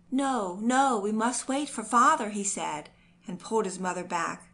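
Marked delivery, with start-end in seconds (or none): 0.1-2.3 higher, louder insistent no; stubborn child's protest. A narrator's reading. Little boy refuses to leave without father, loud. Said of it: "But he resisted".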